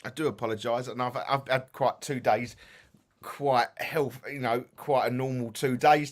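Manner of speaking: sleepy, yawning through the words. Real, not acted. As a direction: talk through a yawn. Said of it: "I can't stop yawning".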